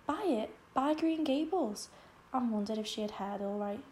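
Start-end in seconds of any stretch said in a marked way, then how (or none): 0.1-1.9 high, loud, stunned disbelief; shocked disbelief. Acted. Anne, stunned by the sale news, in high loud disbelief. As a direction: gasp it out as if you misheard.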